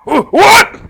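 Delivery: high, loud surprised stammer; startled what. Acted. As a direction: caught completely off guard. Sissel caught off guard.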